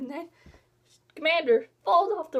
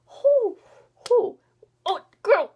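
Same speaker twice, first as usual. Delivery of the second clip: exasperated outburst; 8 semitones higher, 9 dB louder, slower than usual. Real, not acted. Fan fuming about a hated villain, exasperated outcry. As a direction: let the anger spill out before the words. Rage at Commander Jansen.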